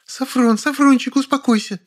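high female voice, lamenting plea; a wife begging her husband to calm down; high pleading lament; wailing woman. A narrator's reading. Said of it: "причитала шикарная женщина".

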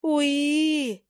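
high, sharp little squeal; squealing mandrake. A narrator's reading. Mandrake squealing, pointing at the owl. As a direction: squeal like a startled plant creature. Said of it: "заверещала Мандрагора".

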